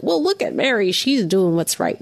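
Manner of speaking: mock critical. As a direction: imitate a faultfinder, pitch up at the start. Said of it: "Not in a critical way".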